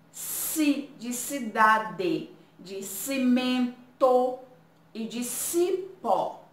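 "si" in cidade, cimento, cipó said slowly; slow syllable drill. Shown as a demonstration. Teacher to pupils, slowly drilling si words. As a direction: linger on each "si".

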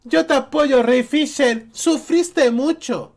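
high mock sympathy; mocking supporters. Vlogger parodying fans comforting Ray Fisher, high mock sympathy. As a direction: imitate gushing fans in a high, sugary mock voice. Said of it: "Miles de personas diciéndole".

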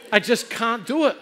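hammed-up helplessness; mock panicked refusal. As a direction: plead that you cannot jump. Refusing the jump in retold panic.

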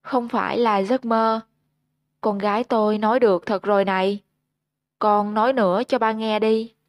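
beam with joy, rush the middle line; joyful cry. Acted. Father overjoyed his mute daughter speaks, mildly excited. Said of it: "mà reo lên vui sướng".

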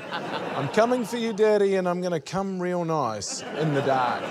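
high, slow mock creepy voice; hammed-up creepy quote. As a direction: ham up the creepy line laughing. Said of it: "And I quote again".

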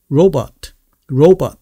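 "robot" joined up, "ou" first and open vowel second; correct robot model. Shown as a demonstration. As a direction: model "robot" as one word with a rounded R. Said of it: "이렇게 되는 거고".

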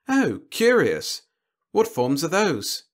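high, slow, drawn-out curiosity; curious alien. A narrator's reading. Alien host asking his guest about other foes, slow high curiosity.

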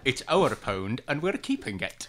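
Scottish politician impression. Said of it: "generic Scottish politician".

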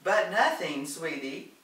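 firm reminder. A narrator's reading. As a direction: shut the idea down emphatically. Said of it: "Doris reminded her".

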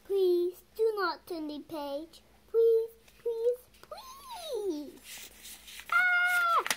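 pleading rising to a high scream; beg, then shriek in panic; frantic begging. Acted. Grover begging reader not to turn page, then screaming.

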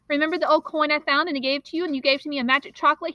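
fast, high, urgent demand; breathless boy demanding help. Acted. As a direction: rush it out, demanding answers. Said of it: "he demanded".

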